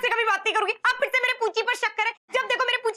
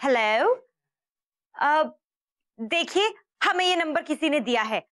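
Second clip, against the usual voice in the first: disguised woman's voice; 5 semitones lower than usual. Acted. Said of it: "पराई लड़की बन के बात कर".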